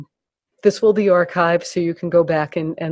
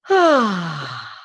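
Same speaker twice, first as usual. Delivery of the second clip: relaxation sigh. Shown as a demonstration. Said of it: "universal sound of relaxation".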